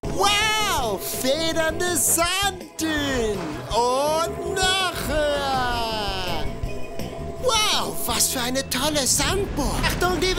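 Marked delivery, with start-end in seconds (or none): 0.0-6.4 excited. Acted. Bouncing over sand dunes.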